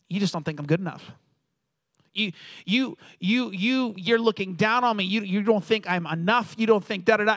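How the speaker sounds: imitating an indignant son, stumbling on repeated "you"; mock mad son. Son silently accusing his dad during tie-tying, mock mad. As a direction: act out a kid's mild angry protest. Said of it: "I'm all mad at my dad".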